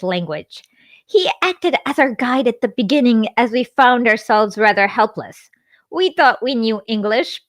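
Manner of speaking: measured book narration voice; memoir read-aloud. A narrator's reading.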